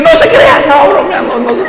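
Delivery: whispered nervous laughter; panicked laughing backtrack. Retold or imitated. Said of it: "cuando yo vi el cuchillo dije". (retractándose entre risas nerviosas)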